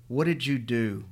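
raw, raspy croak. Acted. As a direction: croak it through a raw throat. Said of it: "she croaked, her voice raw and raspy".

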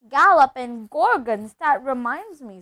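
loud exclamation, then easing; sudden remembering. Acted. Character slaps forehead at a memory, exclaiming. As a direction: burst out as if just remembering.

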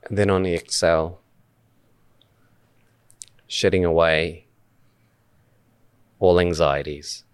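unhurried meditation guide, long pauses between phrases; measured guided-meditation delivery with spacious silences. Acted. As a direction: lead listeners gently through breath awareness, phrase by phrase. Leads a meditation.

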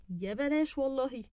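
excited. Acted. Acting out the dialogue line.

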